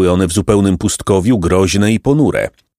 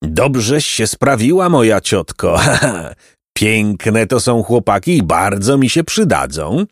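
horse-like neighing voice. Acted. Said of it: "głosem przypominającym rżenie konia".

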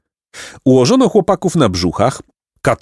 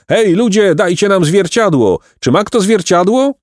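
high, eager calling out; excited raised cries; crowd shouting; 11 semitones higher than usual. A narrator's reading. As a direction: call to the crowd for help in a high voice. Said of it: "krzyknęli nagle".

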